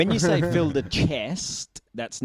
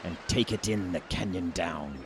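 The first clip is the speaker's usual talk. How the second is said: pirate voice; 4 semitones lower than usual. Pretend. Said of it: "have you got a pirate voice".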